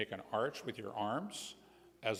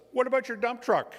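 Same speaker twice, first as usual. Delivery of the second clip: high, raised call; calling after someone; 8 dB louder than usual. A narrator's reading. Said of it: "Robin calls after him".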